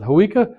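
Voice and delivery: "Hawika" with an English W sound in the middle; pronounced with a W. Shown as a demonstration. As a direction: say "Hawika" as huh-WEE-kuh. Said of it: "some people pronounce it".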